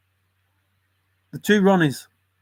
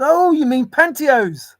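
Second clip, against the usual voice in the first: higher, slow puzzled shopkeeper voice; high mock shopkeeper guess; 11 semitones higher, 6 dB louder than usual. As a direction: play the confused shopkeeper.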